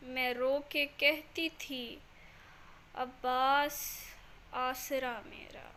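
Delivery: measured verse recitation with long pauses; शायरी पाठ. Acted. Recites her couplets. (धीमा, ठहराव भरा शायरी पाठ)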